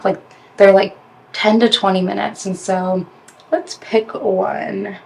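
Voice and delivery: slight lisp from whitening strips on teeth. Real, not acted. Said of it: "it's giving me a lisp".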